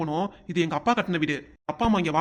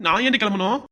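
angry shout; 2 semitones higher, 5 dB louder than usual. Acted. Husband shouts back at wife.

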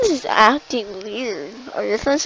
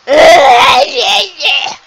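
loud, high wailing cry; mock wailing; 7 semitones higher, 13 dB louder than usual. Crying doll in a play scene, loud wail. Soul cries after talk of weeping.

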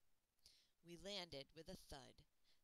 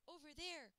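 high, loud call across the jungle; 10 semitones higher, 5 dB louder than usual. Acted. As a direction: shout it to your friend. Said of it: "she called out".

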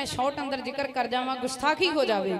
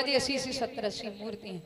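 softer, sheepish answer; quiet admission; 4 semitones lower, 8 dB quieter than usual. A narrator's reading. Wedding guest confessing their numbers to the commander, quietly. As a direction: mumble it timidly. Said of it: "ਇੱਕ ਹੌਲੀ ਕੁ ਦੇਣੇ ਬੋਲਿਆ".

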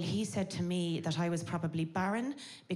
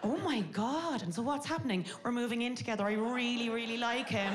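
put-on higher-pitched girlfriend gossip; mock gushing; 5 semitones higher than usual. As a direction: gush excitedly to a friend. Acted friend, then gushing reply.

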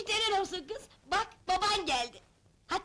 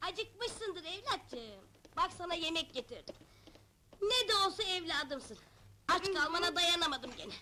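tender mothering; 4 dB quieter than usual. Acted. Mother bringing food to her child.

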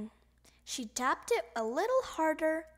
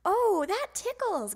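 giggled; 9 semitones higher, 5 dB louder than usual. A narrator's reading. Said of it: "giggled Froggy".

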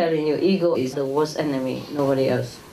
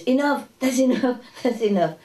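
higher mock nagging voice; imitating the resident; 6 semitones higher than usual. Teacher mimics the old lady stopping the cooking, higher and fussy. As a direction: fuss at them to stop cooking.

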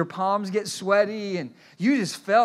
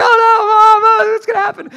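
mock panic; 13 semitones higher, 11 dB louder than usual. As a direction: ham up the boys' panic, laughing. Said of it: "And it's like".

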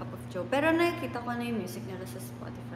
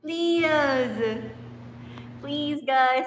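begging; 3 semitones higher, 4 dB louder, much slower than usual. Real, not acted. Begging viewers.

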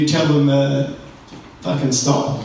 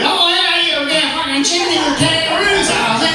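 high-pitched mangled Australian, like a London chimney sweep; botched Australian accent; 13 semitones higher than usual. Retold or imitated. Comedian mocking American actors' attempts, botched high Australian accent. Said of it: "American actors do an Australian accent, it tends to sound more like".

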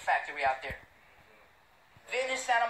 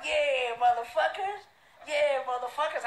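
laughing taunt; 5 semitones higher, 4 dB louder than usual. Retold or imitated. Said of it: "He started cracking the fuck up".

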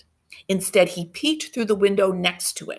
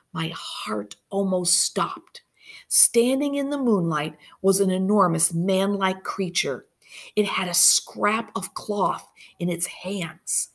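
hushed suspense narration. A narrator's reading.

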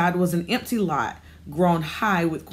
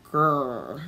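dog growl; 5 semitones lower than usual. Acted. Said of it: "said the dog".

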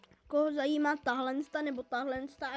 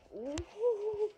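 playful hoot; 7 semitones higher, much slower than usual. Pretend. Playful noise while descending.

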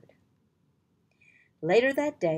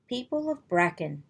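said loudly; 3 semitones higher, 4 dB louder than usual. Acted. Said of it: "the king said loudly".

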